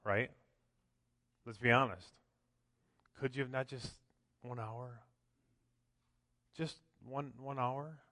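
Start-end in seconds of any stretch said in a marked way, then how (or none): 3.2-8.0 much softer, almost hushed pleading; soft plea. Retold or imitated. Echoing Jesus to the sleeping apostles, soft and hushed. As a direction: ask it gently, like a sad question.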